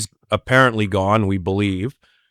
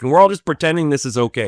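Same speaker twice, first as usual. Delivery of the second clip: fast, higher-pitched mock rant; retold telling-off; 4 semitones higher, faster than usual. Will confronts his guests at dinner, mildly acted rant. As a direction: tee off on them, quickly. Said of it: "he tees off on them".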